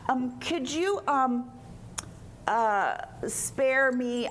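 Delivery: acted hesitant request with halting pauses; mildly fearful, stumbling plea; timid, hesitant plea. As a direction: feel your way nervously into asking. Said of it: "Think about the fear that she had".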